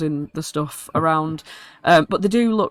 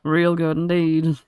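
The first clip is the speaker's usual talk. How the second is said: goblin muttering. Acted. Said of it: "he just starts muttering to himself".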